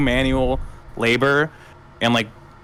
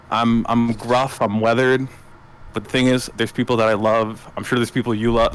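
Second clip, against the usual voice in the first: grounded; 3 semitones lower than usual. Acted. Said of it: "he's very grounded".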